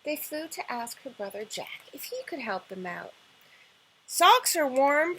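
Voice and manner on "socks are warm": slow, louder prince. Acted. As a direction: offer it helpfully and slowly. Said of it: "Prince Jack replied".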